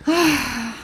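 mock gasp of disbelief; imitated shocked gasp. Ross hears she is not going, imitated gasp. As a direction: gasp as if stunned by the news.

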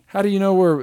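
high, loud incredulous yelp; mock outrage at the scene; baffled what. Retelling his own reaction, high incredulous yell. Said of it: "I was like".

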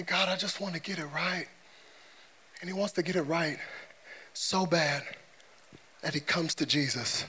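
low, soft, measured preaching; hushed, earnest. Real, not acted. Preacher telling of Nicodemus wanting it right, hushed and earnest. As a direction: drop right down, sincere and unhurried.

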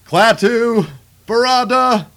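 hesitant magic words. Retold or imitated. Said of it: "and he's like".

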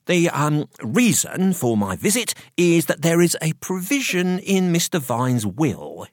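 high-pitched, officious solicitor voice; professional solicitor. A narrator's reading. Solicitor explaining the will, officious professional mode. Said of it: "switched back into professional mode".

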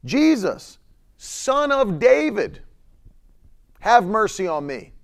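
Son of David climbs high and slow; crying out. Retold or imitated. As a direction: call out across a crowd for mercy. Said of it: "cried out and said, loud voice".

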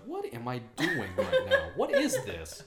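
giggling through a baffled question; laughing mock confusion. Mocking himself making a sandwich, laughing. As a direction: play dumb while laughing.

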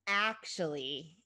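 drawn-out, hesitant opener; slowly. A narrator's reading. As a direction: ease reluctantly into bad news. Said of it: "began Chrissy slowly".

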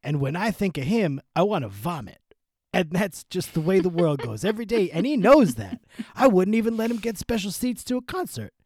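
mystery character voice; put-on voice. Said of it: "What voice am I doing?".

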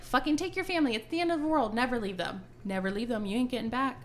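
yelling. Retold or imitated. Yelling at character to take family.

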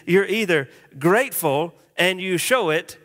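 singsong chant for the congregation; broad singsong kids theatre. Shown as a demonstration. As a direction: chant it like a kids' rhyme. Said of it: "Can you say that with me?".

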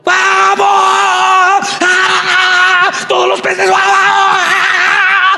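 very high squealing shouts; excited fish. Acted. Fish rushing to Peter's net, squealing with excitement. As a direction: rush in like a cheering school of fish.

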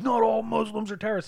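high-pitched mimicking protest; mock objection. Imitating what some people say back, mock objection. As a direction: put on a whiny high voice of an objector.

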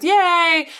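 loud, high mock cheer; retold cheer. Bathhouse crowd cheering for Chihiro, loud high yell. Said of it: "But everyone goes".

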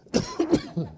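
short repeated coughs; real throat-clearing cough. Real, not acted. Preacher coughing while congregation talks, real cough. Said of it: "don't cough like that".

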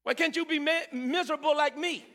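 mock-scolding, sour church-folk voice; preacher imitating religious people scolding joy. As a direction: poke fun at the killjoys. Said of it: "Religious people like to tell you".

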